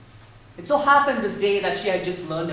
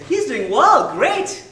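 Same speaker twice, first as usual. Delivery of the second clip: high, louder cheerful little doctor; child doctor; 8 semitones higher, 9 dB louder, much slower than usual. Retold or imitated. Daughter playing doctor reporting on her baby brother, high. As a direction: reassure like a tiny doctor.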